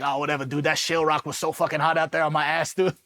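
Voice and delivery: thick Boston accent, put on for the retelling; imitated Boston accent. Buddy shrugging off teasing about his pants, imitated Boston accent. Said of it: "he had this thick Boston accent".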